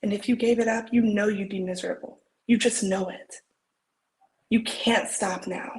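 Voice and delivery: earnest pep talk, acted with feeling; heartfelt dramatic encouragement; audition monologue. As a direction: insist on their worth, building from gentle to emphatic.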